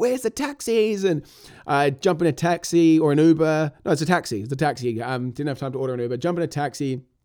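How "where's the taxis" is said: mock, very high, shrill, panicked, frantic scream. Running late through an airport, he retells what he screamed: retelling a scream. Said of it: "screaming like".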